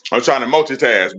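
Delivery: talking with mouth full; words around a bite of breakfast; cheeks stuffed full. Real, not acted. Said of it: "My mouth is full".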